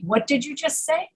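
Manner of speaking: rising tune to the end on say; puzzled query. Acted. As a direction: ask as if you misheard, lifting say. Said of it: "They say".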